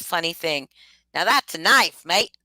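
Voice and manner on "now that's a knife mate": a louder Kiwi comedy-show line; mock New Zealand accent. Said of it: "I can't fucking say it".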